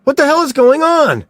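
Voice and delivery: loud, fast and high demand; frantic yelling; angry shout. A narrator's reading. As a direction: bark the question in panic. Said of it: "Mills shouted".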